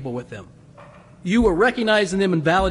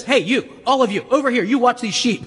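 calling out orders; 5 semitones higher than usual. Acted. Shepherd calling orders to others.

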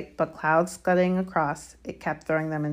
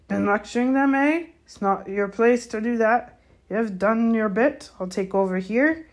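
higher, louder rebuke; gamekeeper, disapproving; 6 semitones higher, 5 dB louder than usual. A narrator's reading. Hagrid telling Filch off, disapproving. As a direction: take charge and send him off.

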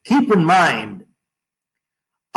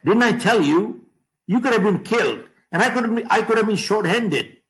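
mild anger; 5 semitones higher than usual. Acted. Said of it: "he got angry".

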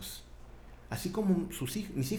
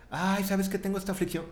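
mock lament; 5 semitones higher than usual. Acted believer confiding an affliction.

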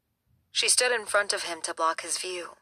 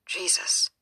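whispered curse. Acted. Grim discovery in the house.

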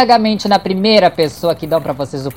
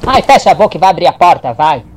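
irritated; 6 dB louder, much faster than usual. Acted. Irritated hurried dismissal.

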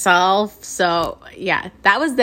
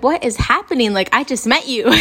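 higher, incredulous reaction; retold disbelief; 4 semitones higher, 4 dB louder than usual. Speaker to the new friend threatening a fight, retold disbelief. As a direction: replay your baffled protest, pitched up.

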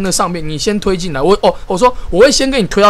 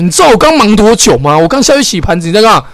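firm, louder retort; retold angry retort; 5 dB louder than usual. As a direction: push back hard at a lazy coworker. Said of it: "我那时候就直接跟他说".

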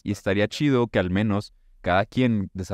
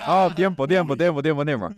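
loud, higher, calling for time; 6 semitones higher, 3 dB louder than usual. Real, not acted. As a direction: call a time out loudly. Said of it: "Saca sus tres líneas aquí".

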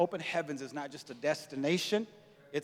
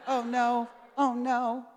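high, louder mocking cry of oh no; mock alarm; 8 semitones higher, 6 dB louder, much slower than usual. Pastor mocking the men's panicked oh no. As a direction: play their alarm, pitched up and big.

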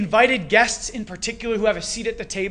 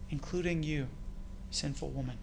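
lower, much softer, tender aside; tender assurance; 4 semitones lower, 10 dB quieter than usual. Acted. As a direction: drop low and soft to reassure her. God's words turn to the woman.

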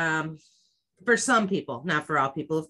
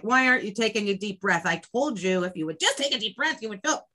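irritated; faster than usual. Retold or imitated. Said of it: "get irritated and be like".

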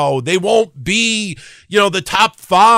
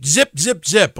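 imitated clipper noise; slower than usual. Imitates clippers cutting hair.

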